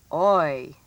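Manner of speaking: put-on oi as in boy; oi vowel sound. Shown as a demonstration. Teacher announces the last sound, oi as in boy. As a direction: say oi as one gliding vowel, "oy". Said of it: "has the oi sound".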